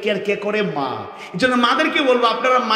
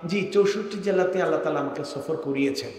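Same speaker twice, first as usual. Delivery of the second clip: smiling reply; 5 semitones lower, 7 dB quieter than usual. Retold or imitated. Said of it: "মুচকি হাসলাম আর বললাম".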